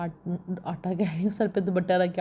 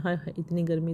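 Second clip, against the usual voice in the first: heat lament. Real, not acted. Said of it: "मुझे तो सोच सोच के होल पड़ते हैं".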